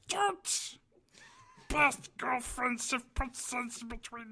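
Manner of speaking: Gollum voice. Shown as a demonstration. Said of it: "read something in his Gollum voice".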